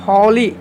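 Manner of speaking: होली said with a clearly voiced h at the start; pronunciation model. Shown as a demonstration. Teacher showing students that holy begins with an h. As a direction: sound the h of होली plainly. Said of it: "ह उच्चारण हो रहा है".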